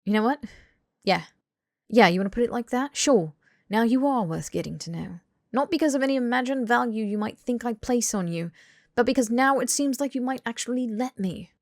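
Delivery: firm, blunt comeback; sharp and challenging; tough love. Acted. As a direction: call his bluff, then press the point. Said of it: "time for some tough love".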